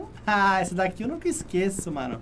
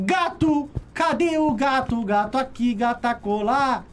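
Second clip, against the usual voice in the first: excited search; 5 semitones higher, 5 dB louder than usual. Real, not acted. Cat vanished, searching it.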